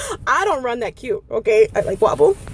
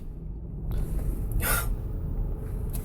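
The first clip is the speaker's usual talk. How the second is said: frustrated breath; 11 dB quieter than usual. Acted. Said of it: "Frustration in my heart".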